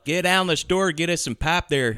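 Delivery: put-on Chicago-style regional accent; playful Chicago twang. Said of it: "that's Chicago".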